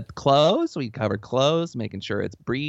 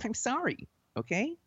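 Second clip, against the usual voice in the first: soft, higher, near-tearful apology; mock choked up; 8 semitones higher, 10 dB quieter than usual. Scolded host apologising, softer and mock choked up. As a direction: hold back fake tears. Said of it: "you don't have to get choked up".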